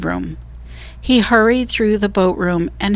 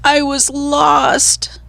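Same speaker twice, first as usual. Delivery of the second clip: breathless whisper; 7 semitones higher, much slower than usual. A narrator's reading. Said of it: "she cried".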